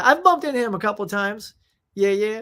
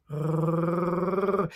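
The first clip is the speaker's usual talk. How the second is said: imitated low dog growl; dog's low growl; 2 semitones lower than usual. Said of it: "that low growl".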